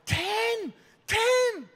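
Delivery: very high, squawked exclamation; outraged disbelief. Acted. Father balking at ten bridesmaids, outraged. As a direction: shoot the pitch right up in disbelief.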